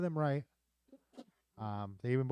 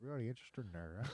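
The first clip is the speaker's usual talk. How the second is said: softer mock Res accent; 4 dB quieter than usual. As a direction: echo it in a quiet Native reservation accent. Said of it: "they got the Res one".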